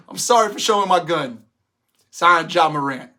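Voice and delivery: mock apology. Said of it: "That be my apology".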